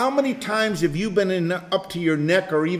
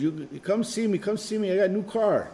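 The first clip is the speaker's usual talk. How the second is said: put-on light French accent, a bit softer; 3 semitones higher, 5 dB quieter than usual. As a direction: imitate grandpa with a French accent. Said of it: "he s-, had the French accent".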